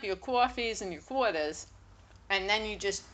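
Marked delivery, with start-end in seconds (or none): 0.0-1.7 Long Island "coffees and your quarters"; Long Island accent. Shown as a demonstration. Telling friend what Long Islanders clean up, Long Island accent. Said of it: "fucking coffee and quarter".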